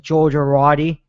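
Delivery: "Georgia Roddy" run together as one slurred New York word for "Joe Girardi"; thick New York accent. Retold or imitated. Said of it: "he says it with his thick accent".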